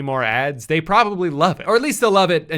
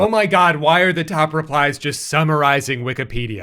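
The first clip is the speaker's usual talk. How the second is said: exasperated; 3 dB louder than usual. Real, not acted. Exasperated outburst.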